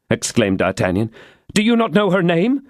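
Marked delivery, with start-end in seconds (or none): 1.5-2.6 put-on puzzled young woman. Constance wonders.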